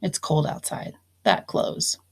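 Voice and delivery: soft whispered example sentence. Shown as a demonstration. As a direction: whisper it like a little secret. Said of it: "I need to close the door".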